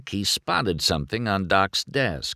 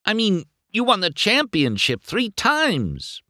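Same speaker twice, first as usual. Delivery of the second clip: very high-pitched gushing admiration; thrilled and awestruck. A narrator's reading. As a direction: gush like a starstruck fan, voice way up. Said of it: "McQueen gushed".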